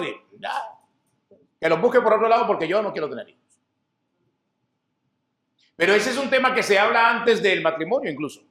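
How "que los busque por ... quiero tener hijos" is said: mock wife. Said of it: "el hombre quiere tener hijos".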